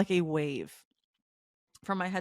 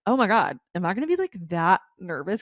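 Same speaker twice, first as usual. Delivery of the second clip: nervous panic; 4 dB louder than usual. Retold or imitated. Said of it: "but then I was like".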